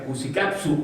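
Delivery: Cucicapsu with the accent on the last U; stress on final U. Shown as a demonstration. Speaker shows audience a nonsense word, stressing the U in Cucicapsu. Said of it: "con acento en la U".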